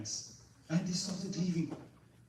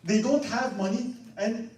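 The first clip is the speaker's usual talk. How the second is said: high, loud, scornful laughing retelling; disgusted laughing; 9 semitones higher, 7 dB louder than usual. Retold or imitated. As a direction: laugh in disbelief at the greedy patriarch. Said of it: "He was so disgusted of this person".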